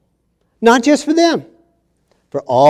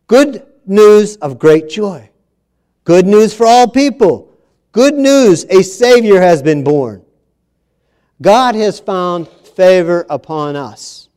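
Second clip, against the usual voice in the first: 1 preaching; 3 semitones higher than usual. Acted. Preaching build-up.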